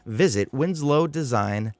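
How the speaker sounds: Dr. Seuss rhyme read. Acted. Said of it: "rhyme-heavy tone of Doctor Seuss".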